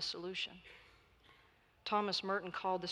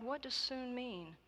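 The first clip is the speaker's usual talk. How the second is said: higher, softer puzzled question; inquiring; 5 semitones higher, 5 dB quieter than usual. A narrator's reading. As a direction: ask gently, not understanding. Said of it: "inquired God".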